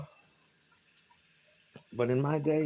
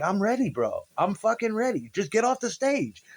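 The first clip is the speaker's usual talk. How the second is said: annoyed brush-off; 8 semitones higher than usual. Retold or imitated. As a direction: wave off the nagging organizer. Annoyed reply to frantic organizer.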